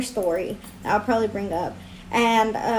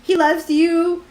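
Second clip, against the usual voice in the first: little devil voice; 4 semitones higher, 3 dB louder than usual. Pretend. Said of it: "the little devil".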